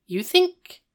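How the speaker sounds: high excited fan voice; gushing Eric. Acted. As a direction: squeal it like a smitten fan. Eric gushing about Howie.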